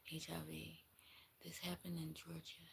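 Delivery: voiceless whispered aside. Real, not acted. Reader slipping the viewer a secret place name, whispering. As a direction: hush it like gossip.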